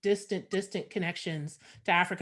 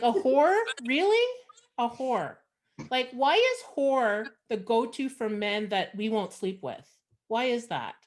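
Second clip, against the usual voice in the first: incredulous outrage. Retold or imitated. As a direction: play the offended disbelief for laughs. Outraged at the insult.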